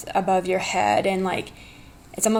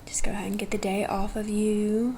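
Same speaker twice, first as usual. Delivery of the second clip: breathy close whisper; 3 dB quieter than usual. Acted. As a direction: whisper it right in their ear. Whispered aside in healing.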